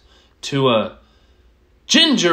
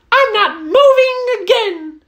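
laughing; 5 dB louder than usual. Acted. Mouse delighted by castle.

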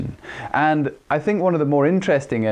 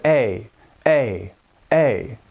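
sharper A from the throat; throat-placed, sharper A; much slower than usual. Shown as a demonstration. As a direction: say each A from the throat. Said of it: "how much sharper it appears".

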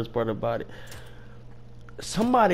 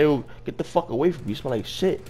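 slightly raised mock disgust; calmer retold insult; 4 semitones higher than usual. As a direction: repeat the insult with the laughter subsiding.

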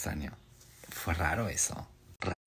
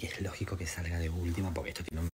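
whisper; 3 semitones lower, 5 dB quieter than usual. Real, not acted. Whispering near sensitive mic.

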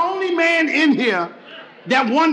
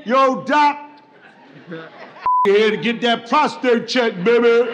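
cool swagger; trying to be smooth; 3 semitones lower than usual. Retold or imitated. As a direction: act slick and casual with the doctor. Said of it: "trying to be all smooth".

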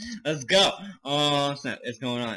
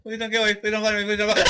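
high, frantic begging; panicked pleading; 6 semitones higher, much faster than usual. Real, not acted. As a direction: beg for your life in a high voice. Begging the monster while hiding.

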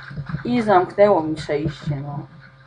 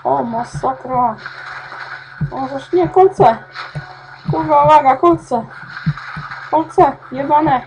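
loud, much higher warnings; alarmed cries; 6 semitones higher, 6 dB louder than usual. Real, not acted. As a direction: yelp at the spikes. Alarmed by spikes. (alarmowe okrzyki)

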